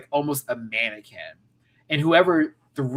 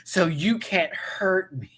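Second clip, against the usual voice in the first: mock Sharon Stone; slower than usual. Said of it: "Sharon saw the whole thing".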